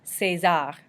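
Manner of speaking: César as say-ZAR, the é like AY; French pronunciation. Shown as a demonstration. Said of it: "We say the R at the end".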